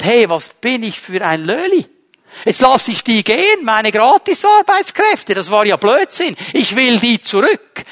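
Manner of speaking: a hammed-up pharaoh grumbling to himself; mock Pharaoh. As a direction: play a sulky Pharaoh changing his mind. Preacher voices Pharaoh regretting.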